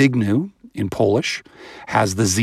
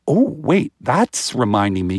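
put-on baby's inner voice; 2 semitones higher than usual. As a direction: play a baby recognising a sound. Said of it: "they go".

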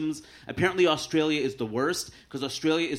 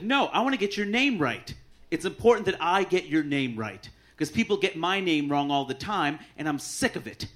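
upset stranger. Retold or imitated. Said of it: "he gets upset".

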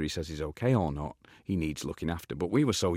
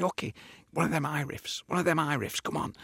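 higher, eager urging; eager Ian voice; 8 semitones higher than usual. Retold or imitated. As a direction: egg on the band eagerly. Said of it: "he'd say".

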